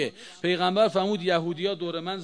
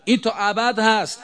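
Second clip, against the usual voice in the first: این تا ابد هست said much louder, each word hammered; loud emphatic repeat; 5 semitones higher, 5 dB louder than usual. Acted. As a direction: proclaim این تا ابد هست with full force. Repeats the phrase twice.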